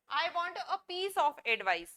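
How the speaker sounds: each word spaced out slowly for students; slow model sentence. Shown as a demonstration. Teacher reading an example sentence for learners, slowly. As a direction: dictate it slowly. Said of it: "पीस लिखा हुआ है इसलिए ए लगा है".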